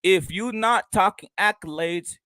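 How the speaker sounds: slow mocking quote of broken English; quoting his grammar. Vlogger mocking a boxer's broken English, slow and mocking. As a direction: drag out the bad grammar. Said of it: "this is a quote from Shakur Stevenson, how he talks".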